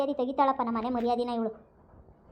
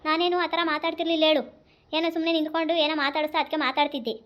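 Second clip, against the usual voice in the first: defensive protest; 3 semitones higher, 3 dB louder than usual. Acted. Daughter keeps denying.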